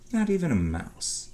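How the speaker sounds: ordinary delivery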